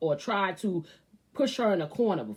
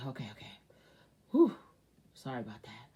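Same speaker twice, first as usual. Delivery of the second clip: hushed, softer aside to himself; whispered aside; 8 semitones lower, 6 dB quieter, faster than usual. Real, not acted. Apologizing to viewers in a hushed whisper. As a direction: drop to a near whisper.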